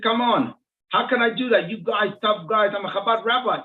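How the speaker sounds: retold exasperated appeal; incredulous protest. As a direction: protest the unfair challenge in disbelief. Acted protest at an unfair challenge.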